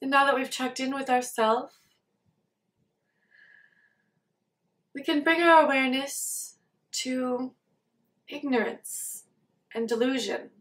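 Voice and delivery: soft, unhurried meditation guidance with long pauses; guided meditation. Acted. Teacher leading listeners to check in with body and mind, guided meditation. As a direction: gently guide listeners to settle into awareness.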